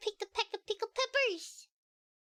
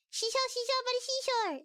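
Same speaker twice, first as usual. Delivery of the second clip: faster retry of the twister; 5 semitones higher, faster than usual. Shown as a demonstration. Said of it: "See, I know that".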